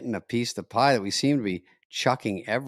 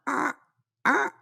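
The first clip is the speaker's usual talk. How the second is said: pterodactyl shriek; 3 dB quieter than usual. Shown as a demonstration. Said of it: "I can do a pterodactyl".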